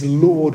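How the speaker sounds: "Lord," stressed with weight and a falling tune; emphatic Lord. Shown as a demonstration. Preacher showing an earnest cry of Lord. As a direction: lean hard on "Lord,". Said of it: "with emphasis".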